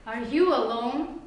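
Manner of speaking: slow, neutral asking; waiter's polite-seeming question, slow and neutral; plain polite question. Retold or imitated. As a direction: ask it as he said it on the surface. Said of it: "It was in his tone".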